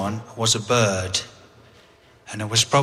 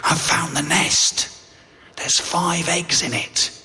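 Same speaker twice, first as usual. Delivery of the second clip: excited; 6 semitones higher, slower than usual. Retold or imitated. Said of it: "came back quite excited, quite agitated".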